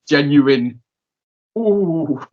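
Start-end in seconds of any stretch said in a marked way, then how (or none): 1.6-2.2 high, drawn-out wincing "ooh". Real, not acted. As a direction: react as if feeling someone else's pain. Reacting to the painful spot.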